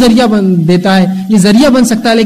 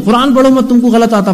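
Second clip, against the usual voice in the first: higher, snapping the order down at him; scornful forbidding; 4 semitones higher than usual. Retold or imitated. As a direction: talk down to a beginner, forbidding him to read. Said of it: "کوئی قرآن پڑھو ہی مت بولتے ہو". (حقارت سے منع کرنا)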